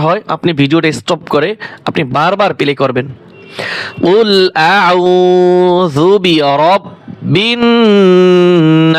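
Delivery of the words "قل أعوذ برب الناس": long drawn-out tajweed chant; slow Quran recitation. Shown as a demonstration. Teacher reciting for students to copy. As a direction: recite it slowly, stretching every vowel.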